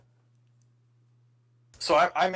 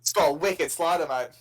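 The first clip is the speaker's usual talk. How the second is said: put-on broad Aussie accent, drawn out slowly; playful slow Australian imitation; slower than usual. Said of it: "that's a pretty good Australian accent".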